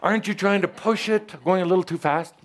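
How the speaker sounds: high, amused questioning voice; lightly voiced Ascended Master. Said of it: "they also call me sir".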